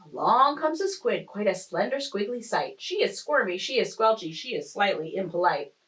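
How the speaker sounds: lilting rhymed storytelling; expressive story-time reading; picture-book narration. A narrator's reading. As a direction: read the rhyme aloud to young children. Reads picture book aloud.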